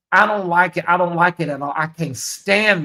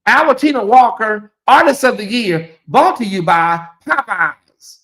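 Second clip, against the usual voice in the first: award announcer; 3 semitones higher, 5 dB louder than usual. Retold or imitated.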